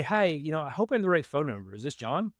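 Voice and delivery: friendly caller reading the script, a bit quick; brisk, easy opener on the phone; cold call opener. Shown as a demonstration. Cold caller greets a homeowner, friendly and quick. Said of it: "So we say".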